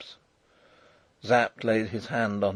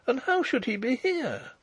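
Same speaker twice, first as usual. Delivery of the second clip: bewildered; 13 semitones higher than usual. A narrator's reading. Princess questioning the farm girl, bewildered. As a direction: ask it high, at a loss.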